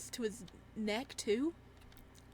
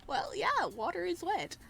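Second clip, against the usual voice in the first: sarcastic; 9 semitones higher than usual. Real, not acted. Sarcastic aside.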